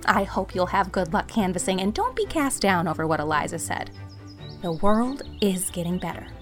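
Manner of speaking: mildly breathless confiding; out of breath. A narrator's reading. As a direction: confide hurriedly, a touch winded from running. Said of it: "she was so out of breath".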